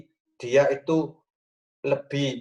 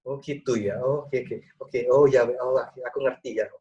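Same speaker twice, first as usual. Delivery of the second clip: attentive acknowledging; 3 semitones lower than usual. Shown as a demonstration. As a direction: show your spouse you understand each word. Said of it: "orang Jawa bilang digongi".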